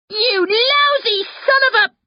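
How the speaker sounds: explode, then break off mid-insult; furious outburst. A narrator's reading. Sister charging at her prankster brother, furious outburst.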